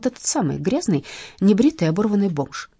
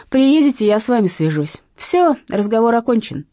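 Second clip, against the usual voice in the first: louder, clipped-off ending; curt and final; 4 semitones higher, 6 dB louder than usual. Acted. Heroine ends the call with the thug, louder and curt. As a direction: shut the talk down flat. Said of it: "отрезала я".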